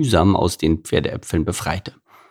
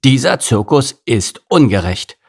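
indignant gorilla; 3 semitones higher than usual. Acted. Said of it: "sagte Gerhard".

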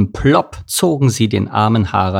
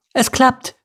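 very high bird-like cry; thrilled little thrush; excited call. A narrator's reading. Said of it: "rief Dörte die Drossel".

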